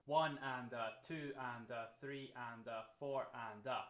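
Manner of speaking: "one and a, two and a" counted evenly, number on each beat; steady rhythmic count with "one", "two", "three", "four" leading each group; counting triplets. Shown as a demonstration. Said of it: "if we're counting in four".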